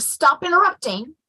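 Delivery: imitated impatient parent; mock parental scolding. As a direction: act out a quick scold. The scolding she avoided, acted.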